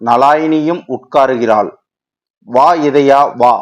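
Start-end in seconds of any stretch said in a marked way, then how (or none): 2.5-3.5 a touch of sobbing in the greeting; mild tearful welcome. Acted. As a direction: welcome her friend while still tearful, understated. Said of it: "தேம்பியபடி வரவேற்கிறாள்".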